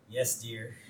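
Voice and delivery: low, soft surrender to the wife; meek husband. Retold or imitated. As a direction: give in sheepishly, voice dropped. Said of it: "He pauses and goes".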